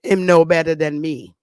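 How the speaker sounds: lightly voiced Jamaican Patois speaker; quick, offhand mock Jamaican accent; imitated Jamaican patois. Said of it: "If I had to go around in Jamaica".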